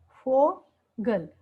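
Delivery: फोगल stretched out very slowly, syllable by syllable; फोगल drawn out for a class; slow demo. Shown as a demonstration. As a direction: spell out फोगल slowly so learners hear each sound. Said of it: "इसका example जो है".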